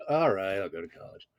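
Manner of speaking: small, soft, resigned mumble; acted sheepish climb-down; meek surrender. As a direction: cave in, dropping away to almost nothing. Defiance collapses into giving in.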